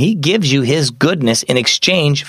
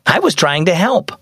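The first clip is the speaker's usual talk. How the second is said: put-on higher, aggrieved young girl; defensive protest; 6 semitones higher than usual. Mia to Mom, explaining herself, defensive protest. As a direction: plead your innocence, pitched up.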